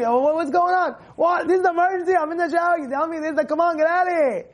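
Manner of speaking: high-pitched flustered protest, hammed up; acted fluster, pitched high; mock exasperation. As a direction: play someone indignant at being interrupted. Hillel acted, interrupted in shower.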